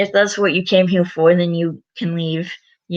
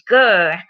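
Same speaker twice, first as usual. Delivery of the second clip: loud mock growl; short, punchy toy-dinosaur grr; playful dinosaur grr; 5 dB louder than usual. George goes grr playing dinosaurs, playful growl.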